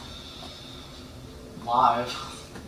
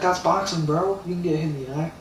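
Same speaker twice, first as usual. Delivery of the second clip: mocking crowd; 5 semitones higher than usual. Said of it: "Everybody was like".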